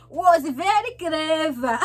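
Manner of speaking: slow reading aloud. Shown as a demonstration. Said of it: "reading aloud in class as a child".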